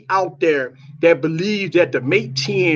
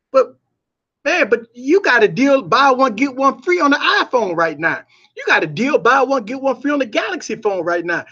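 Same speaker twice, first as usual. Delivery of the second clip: customer voice; 4 semitones higher than usual. Retold or imitated. Customer countering with a deal.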